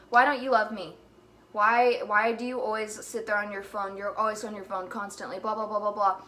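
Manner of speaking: loud retold mood-swing complaint; going off on him. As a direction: imitate nagging him, loud then easing off. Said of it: "I will literally go off on him".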